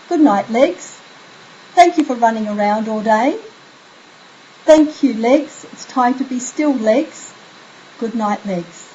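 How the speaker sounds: soothing good night. Shown as a demonstration. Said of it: "move on to the legs".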